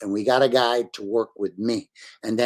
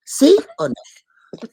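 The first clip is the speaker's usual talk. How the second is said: mock question; 13 semitones higher, 8 dB louder, much slower than usual. Mocking the hoped-for answer.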